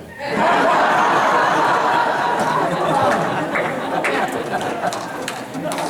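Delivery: high breathy laugh at his own punchline; real laugh. Real, not acted. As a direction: burst out laughing at the joke. Speaker laughs at own joke.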